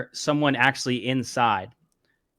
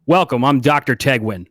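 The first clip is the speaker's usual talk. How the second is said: confident; 5 dB louder than usual. Acted. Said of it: "confidently and sticks his hand out and says".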